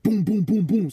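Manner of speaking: high-pitched run of booms; imitated door banging. Telling how the banging came back, imitated booms. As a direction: boom out each knock in turn.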